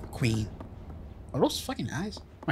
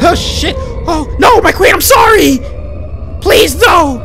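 high, loud terrified pleading; panicked screaming; 11 semitones higher, 11 dB louder, slower than usual. Real, not acted. Player begs the attacking queen, screaming in panic. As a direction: scream and beg as she catches you.

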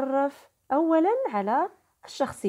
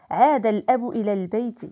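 lively opening line of a story, rising at the end; storytelling; 5 dB louder, faster than usual. A narrator's reading. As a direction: tell عاد الأب إلى البيت as an inviting story opening. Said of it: "لنستمع لحكايتنا الجديدة".

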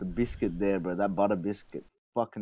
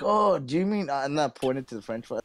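higher, puzzled cashier voice; mock McDonald's worker; 4 semitones higher than usual. Imitating the cashier asking about French fries, puzzled and high. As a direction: play the confused cashier, pitched up. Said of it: "they're like".

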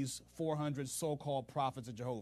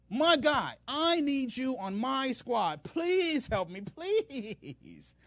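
much higher, louder desperate begging; scared pleading; 6 semitones higher, 4 dB louder than usual. Retold or imitated. Ahab begging Jehoshaphat for help, scared and pleading. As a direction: beg like you're scared stiff.

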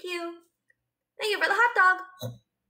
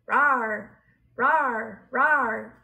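low playful rawr; monster rawr; 8 semitones lower, much slower than usual. Pretend. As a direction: growl like a cute little monster. Cute monster roars.

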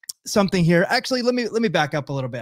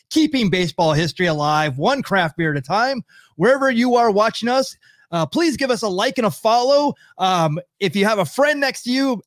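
upbeat show-opening patter; podcast intro; 4 semitones higher than usual. Real, not acted. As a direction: welcome listeners with a practised host's lilt.

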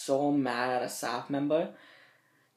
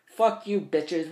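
higher, louder defiant yell; a teen recalling how he cursed out his group home; retold angry yell; 4 semitones higher, 4 dB louder, slower than usual. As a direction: spit it out in retold fury. Yelling before lighting curtains.

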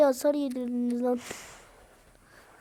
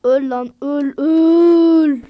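very loud, higher shouts; furious shout; 4 semitones higher, 13 dB louder, much slower than usual. Real, not acted. Gamer screaming during final fight. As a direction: scream at the enemy.

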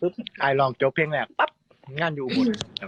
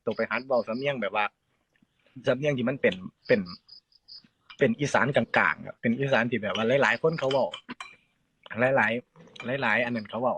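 slow, lower imitation of the teacher; lightly voiced patient teacher; teacher's advice; 4 semitones lower, slower than usual. Singer imitates teacher Sala advising him slowly. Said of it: "ครูสลาก็เลยบอกว่า".

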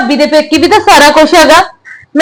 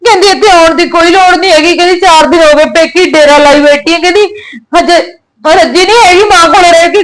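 tearful retelling, sobs breaking in; crying; 2 semitones higher than usual. Acted. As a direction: complain through tears. Daughter weeps retelling insults. (ਰੋਂਦੀ ਹੋਈ ਸ਼ਿਕਾਇਤ)

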